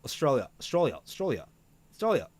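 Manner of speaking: repeating Australia to find the accent; Australian accent warm-up. Shown as a demonstration. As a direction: drill Australia with a broad Australian vowel. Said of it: "I can't do Australian tonight".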